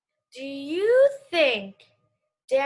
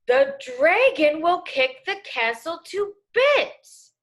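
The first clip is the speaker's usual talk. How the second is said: slow, louder exclamation read; with emotion; 4 semitones higher, 5 dB louder, slower than usual. Shown as a demonstration. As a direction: punch it like an exclamation. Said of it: "when I see exclamation points, I read that with".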